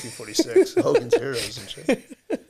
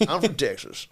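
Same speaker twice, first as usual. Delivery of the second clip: put-on gay Texas accent; 2 semitones higher than usual. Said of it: "can you do a gay Texas accent for us".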